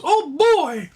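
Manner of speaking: put-on high, giddy "oh boy"; excited. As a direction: squeal it like an eager market. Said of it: "the market goes".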